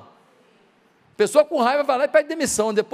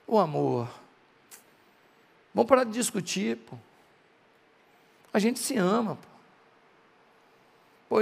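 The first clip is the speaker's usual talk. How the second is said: softly pleading, slightly lowered voice; tender plea; 3 semitones lower, 4 dB quieter than usual. Acted. Husband asks his wife to forgive him after their fight, tender plea. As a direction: coax gently, with pauses between appeals.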